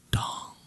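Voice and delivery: a single ringing "dong"; imitated clock chime. A narrator's reading. Clock striking midnight at the ball, imitated chime. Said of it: "The clock was quiet".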